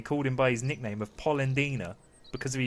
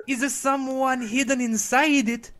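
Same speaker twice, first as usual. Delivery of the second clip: high, loud questioning character voice; carpenter character voice; 12 semitones higher, 5 dB louder than usual. Acted. Carpenter wondering who is hidden inside, high character voice. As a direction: ask it in a raised, put-on voice.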